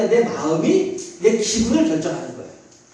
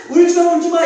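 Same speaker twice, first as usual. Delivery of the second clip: higher, louder frantic hush; urgent hushing; 6 semitones higher, 5 dB louder than usual. Retold or imitated. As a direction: press to calm a wailing baby. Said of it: "애가 자지러지게 울고 있는 상황이기 때문에".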